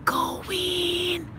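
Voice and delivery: high, soft, drawn-out cheer; tiny stifled squeal cheering on a player; hushed cheer. Retold or imitated. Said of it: "I just go".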